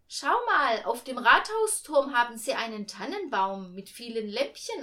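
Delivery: high, loud mother drawing attention; excited pointing out. A narrator's reading. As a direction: call a child to look up.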